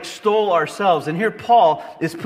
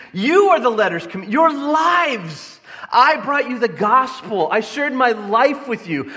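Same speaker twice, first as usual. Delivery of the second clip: hurt Paul; 4 semitones higher than usual. Retold or imitated. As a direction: pour out a betrayed father's hurt. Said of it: "you can feel the hurt".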